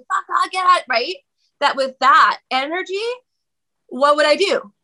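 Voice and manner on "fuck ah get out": mock yelling. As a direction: act out a yell without full volume.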